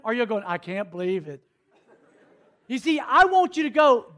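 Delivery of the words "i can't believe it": soft, lower, falling voice; low mock disbelief; hushed disbelief. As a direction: say it quietly, taken aback. Shocked onlooker's reaction acted.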